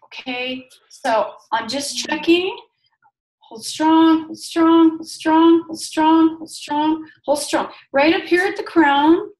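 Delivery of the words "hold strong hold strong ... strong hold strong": louder firm calls, hold strong; firm repeated command. Acted. Healer urging client to hold during muscle test, firm and loud. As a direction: press the client to resist.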